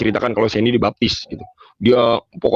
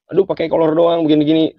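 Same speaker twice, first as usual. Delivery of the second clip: mocking father; 5 semitones higher than usual. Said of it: "masih suka ledek-ledekin saya".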